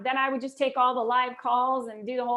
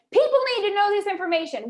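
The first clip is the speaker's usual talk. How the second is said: louder, higher barking boss; mock barking; 8 semitones higher, 6 dB louder, faster than usual. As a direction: bark it at her like an angry boss. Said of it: "he did the whole barking at me again".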